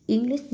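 English with the first syllable stressed; English, weight up front on ENG. Shown as a demonstration. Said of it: "nhấn âm một".

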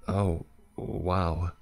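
squeaked. A narrator's reading. Sick man surprised by the introduction, squeaky exclamation. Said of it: "he squeaked".

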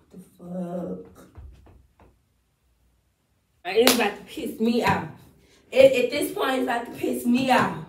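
snapping at herself for messing up; real annoyance. Real, not acted. Angry at flubbed take.

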